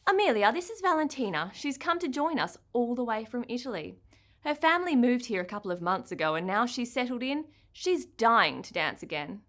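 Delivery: kind, brisk dance teacher; bright teacher voice. Acted. Teacher Miss Lily speaking.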